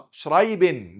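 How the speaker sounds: شرايبن with a tongue-tip r and full ben ending, loud; wrong pronunciation. Shown as a demonstration. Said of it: "ده ما فيش النطق ده غلط خالص". (نطق شرايبن غلط براء عربية)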